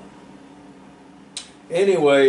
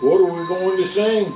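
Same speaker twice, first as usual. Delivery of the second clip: puffed; 8 semitones higher than usual. A narrator's reading. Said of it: "puffed Favor".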